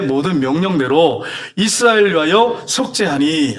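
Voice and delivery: slow, measured reading of a Bible verse; scripture reading. Acted. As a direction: read the verse aloud slowly and solemnly. Reads scripture aloud together.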